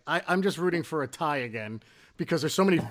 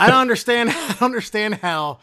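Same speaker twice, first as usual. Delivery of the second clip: laughing disbelief; 8 semitones higher, 7 dB louder than usual. Real, not acted.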